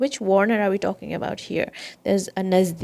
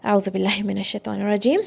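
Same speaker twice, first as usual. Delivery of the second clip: measured Quranic recitation opening; much faster than usual. Shown as a demonstration. Teacher recites for students to listen, in recitation style. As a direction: recite it quickly in one breath. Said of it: "So listen".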